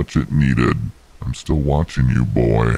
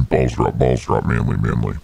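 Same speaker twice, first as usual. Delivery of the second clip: mock manly voice; 4 semitones lower than usual. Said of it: "let me get my serious voice on".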